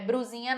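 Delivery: brusinha said with an R instead of an L; wrong brusinha. Shown as a demonstration. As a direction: mispronounce blusinha as brusinha. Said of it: "Mas é com L, não é com R".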